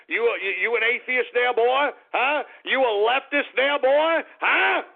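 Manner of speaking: jeering challenge, voice climbing; taunting. Real, not acted. Taunting the Pope mockingly.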